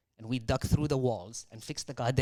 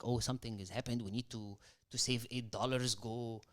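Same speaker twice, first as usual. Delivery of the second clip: very soft, urgent mom voice; hushed anxious mom; 2 semitones lower, 10 dB quieter than usual. Retold or imitated. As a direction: hiss it out like a worried mother. Voicing mother's money anxiety.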